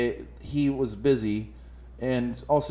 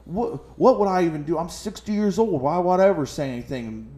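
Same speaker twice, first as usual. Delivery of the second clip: whiny protest; 3 semitones higher than usual. Retold or imitated. Old man protesting innocence.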